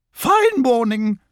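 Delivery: high, drawn-out, cheery hello; pleasant greeting. A narrator's reading. Lottie greeting Eeyore and Piglet, pleasant high voice. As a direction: greet them sweetly, pitched high. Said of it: "she said pleasantly".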